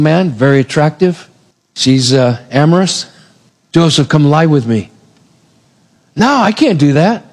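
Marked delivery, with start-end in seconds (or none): 3.7-4.9 understated seduction. Acted. Potiphar's wife first invites Joseph. 6.1-7.2 slightly raised, hesitant objection; mild refusal. Acted. Joseph first turning down Potiphar's wife, mild refusal.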